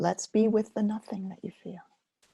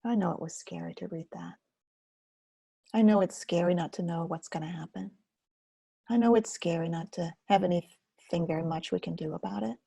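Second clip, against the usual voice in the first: tender comfort. Shown as a demonstration. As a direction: soothe yourself like a scared child. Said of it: "Sometimes I call it".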